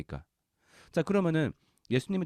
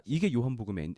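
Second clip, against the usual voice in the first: normal talking voice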